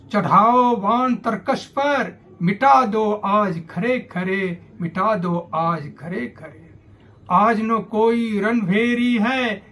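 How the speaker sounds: declaimed verse in measured phrases; declamatory Hindi poetry reading; rousing poem recitation. Acted. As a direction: recite it as a call to arms, line by line.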